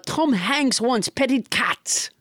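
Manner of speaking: slow mock French accent; French Trump. French Trump reports what Tom Hanks wants, mock French accent. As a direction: say it slowly, lightly French-accented. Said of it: "with a French accent".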